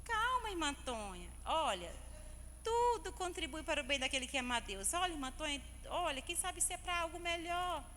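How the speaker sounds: gently reassure, as a pastor would; calming pastor. Retold or imitated. Pastor comforting a troubled church sister, retold calming voice. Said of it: "e ela só".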